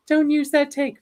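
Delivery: high-pitched mock plea; put-on high, pleading voice. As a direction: imitate a kid pleading, voice up high. Retells young singer's plea.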